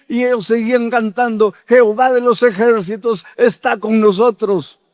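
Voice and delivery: high, ringing preacher's call; fervent preaching. Acted. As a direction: lift the congregation with fervor. Preaching climax, raised voice. (predicación fervorosa y aguda)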